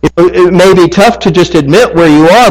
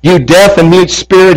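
raised-pitch command, mildly forceful; stern rebuke; 3 semitones higher than usual. Acted. Jesus rebuking an evil spirit, a firm command. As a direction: rebuke it with measured authority. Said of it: "he rebuked the evil spirit".

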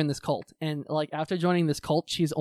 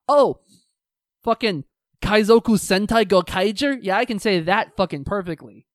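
loud, higher-pitched burst of bragging; mock excited outburst; 3 semitones higher, 6 dB louder than usual. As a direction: act out sudden delighted confidence. Mock excited quote of himself.

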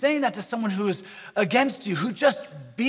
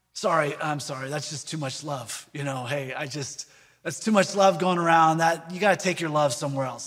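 mock complaint; 4 semitones lower than usual. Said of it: "how people are approaching you and saying".

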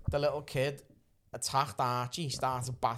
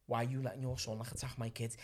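low, quiet, controlled question; remaining calm; 3 semitones lower, 7 dB quieter than usual. Retold or imitated. Partner reasoning with the shouting mother, staying calm. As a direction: keep it soft and composed under provocation. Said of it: "My bird just remaining calm".

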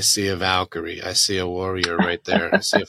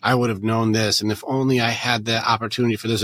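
bargaining; 2 semitones higher, faster than usual. Retold or imitated. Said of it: "You have to go through the bargaining".

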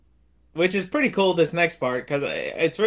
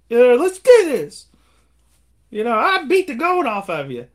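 Clubber Lang challenge; 8 semitones higher, 6 dB louder than usual. Retold or imitated. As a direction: drag it out like a bully. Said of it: "And he's like".

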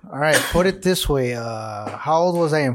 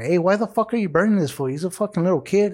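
higher-pitched mock telling-off; retold scolding; 4 semitones higher than usual. Mom telling Chango off for burning her kid, retold scolding. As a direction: imitate a protective mother confronting someone, mildly heated.

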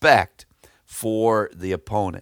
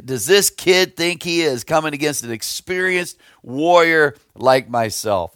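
higher-pitched retold scoff; mocking taunt; 5 semitones higher than usual. Goliath taunting young David, retold as high-pitched mockery. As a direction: imitate an overconfident warrior's jeer. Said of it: "taunting him and mocking him and saying".

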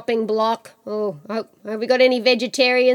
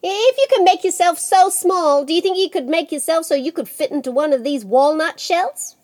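higher-pitched, eager dare; wheedling, raised-pitch question; goading challenge; 5 semitones higher than usual. Acted. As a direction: coax him into proving it. Jack dares Death to shrink.

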